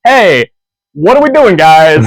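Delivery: a hint of a cheery principal. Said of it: "So he's just like".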